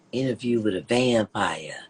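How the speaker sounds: low hushed whisper, no voice; eerie unvoiced whisper; spooky whisper. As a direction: whisper it like a horror trailer. Spooky vampire intro, whispered.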